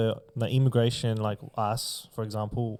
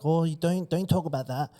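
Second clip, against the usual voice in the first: higher, sing-song mock of a scolding youngster; mock Gen Z voice, higher pitch; 6 semitones higher, 5 dB louder than usual. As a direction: ridicule the Gen Z who cry racist. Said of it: "They're like".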